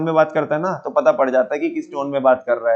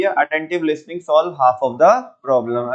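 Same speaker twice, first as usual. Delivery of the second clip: each word laid out slowly for notes; dictating the point to students, slow and deliberate; slow dictation; much slower than usual. Shown as a demonstration. Teacher dictating a note to the class, very slow.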